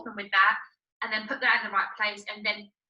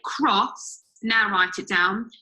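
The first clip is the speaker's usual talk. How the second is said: slow spoken example; much slower than usual. Shown as a demonstration. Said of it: "we don't blend the word".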